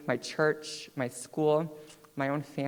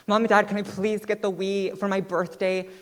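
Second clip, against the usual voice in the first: put-on child begging; 6 semitones higher than usual. Child begging parents for Wii.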